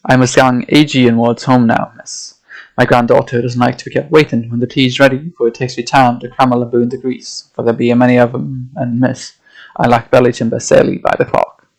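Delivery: lightly voiced old Yorkshire sailor, gruff and dismissive; a hint of a Yorkshire fisherman brushing off tall tales; old Yorkshire accent. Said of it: "having to find an accent here".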